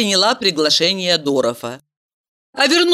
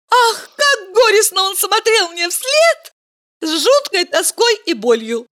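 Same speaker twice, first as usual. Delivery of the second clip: higher, gushing with delight; delighted exclamation; 13 semitones higher than usual. A narrator's reading. Valeria tells Mikhail of the sad suitor, delighted. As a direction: exclaim it with rapture. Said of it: "с восторгом воскликнула".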